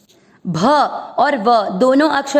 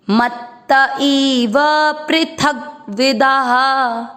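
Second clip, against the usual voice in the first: slow chanted verse, a little raised; Sanskrit recitation; slower than usual. Shown as a demonstration. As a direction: recite the half-line slowly for students. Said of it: "चौथा चरण repeat".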